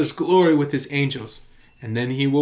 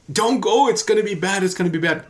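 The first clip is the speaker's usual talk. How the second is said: mock alarmed friend; 5 semitones higher than usual. Alarmed prophetic friend voiced.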